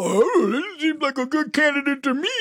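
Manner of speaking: mock leftist. Host mocks leftists gushing over the candidate in a high voice. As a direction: gush up high with fake naivety. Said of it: "these leftists go".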